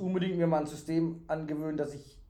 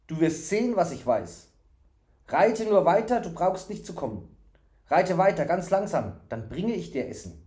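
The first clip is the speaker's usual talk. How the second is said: lightly voiced fool, pitched up; high, insistent simpleton promising help; secretive, eager fool; 6 semitones higher, 3 dB louder than usual. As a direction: give lively, confiding instructions.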